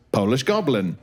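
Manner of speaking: low mock Polish goblin; lightly voiced goblin with a Polish twist. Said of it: "which is goblin voice".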